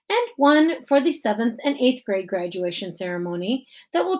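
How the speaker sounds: lightly voiced principal at a podium; principal giving speech. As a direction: address the crowd as the principal.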